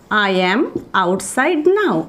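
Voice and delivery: very slow, word by word "I am outside now"; slow model phrase. Shown as a demonstration. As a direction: spell "I am outside now" out slowly for learners. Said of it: "এটার জন্য বলবো". (শিক্ষকের মতো ধীরে "I am outside now")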